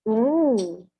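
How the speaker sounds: talking while chewing; crunching coleslaw. Real, not acted. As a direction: mouth full of crunchy salad. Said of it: "hear the crunch in the mic".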